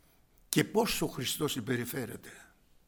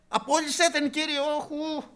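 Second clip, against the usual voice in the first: high, groaning demand; fed up, wave her off; exasperated disciples; 12 semitones higher, 5 dB louder than usual. Retold or imitated. Preacher mocking the disciples' exasperation, high-pitched. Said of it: "Οι μαθηταί".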